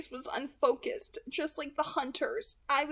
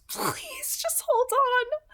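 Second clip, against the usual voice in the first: higher, slow pleading; desperate plea; 13 semitones higher, 5 dB louder, much slower than usual. Acted. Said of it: "Edith pleaded".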